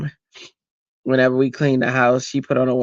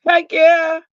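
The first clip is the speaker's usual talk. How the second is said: high, loud whoop of agreement; emphatic agreement; 6 dB louder than usual. Real, not acted. Grandmother agreeing with a viewer, excited shout.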